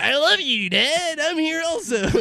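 loud, high, eager son; high excited shout. Acted. Second son declares love louder.

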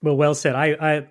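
breathless after a long read; out of breath. Real, not acted. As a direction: gasp between words, winded. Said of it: "I'm so out of breath".

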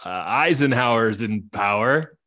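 game master opening the scene, measured and slightly slow; story narration. A narrator's reading. Game master introducing the Wallace family, storyteller cadence.

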